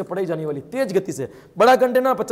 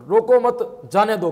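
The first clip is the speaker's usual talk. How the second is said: "रोको मत", a pause, then "जाने दो"; slow demonstration, pausing after "मत"; example phrase with pause; slower than usual. Shown as a demonstration. Punctuation example quoted for students.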